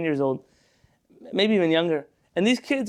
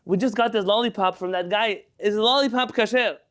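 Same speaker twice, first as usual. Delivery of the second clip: a light hint of a small child asking, a bit higher; lightly voiced little boy asking the rabbi; tiny little voice; 4 semitones higher than usual. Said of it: "in this tiny little voice".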